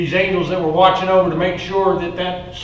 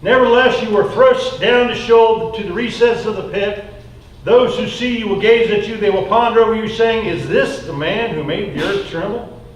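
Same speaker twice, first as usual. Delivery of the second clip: scripture reading. Acted. Reads Isaiah aloud.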